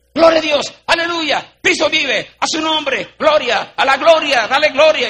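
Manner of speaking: high-pitched, fervent praise shouts, hammed up; mock shouted praise. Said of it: "hasta yo hacía así".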